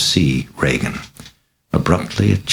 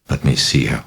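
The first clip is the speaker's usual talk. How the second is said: ordinary delivery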